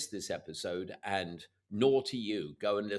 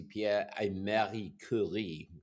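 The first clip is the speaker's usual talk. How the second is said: French accent; slower than usual. Real, not acted. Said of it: "I'm sorry about my lousy French accent".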